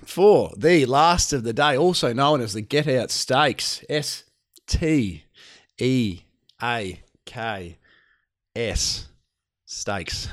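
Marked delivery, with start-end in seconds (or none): 1.8-10.3 S T E A K S, each letter spoken slowly and separately; spelled out. Shown as a demonstration. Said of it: "spells out the name".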